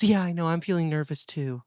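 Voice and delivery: lightly voiced sympathetic mom; a hint of a mom commiserating with her child; Megan. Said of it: "And she goes".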